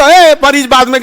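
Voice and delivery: drawn-out, demanding call to halt; mock stopping shout. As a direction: act out someone flagging down an ambulance. Ambulance रोकने वाले की नकल. (रास्ता रोकने वाले की नकली हाँक)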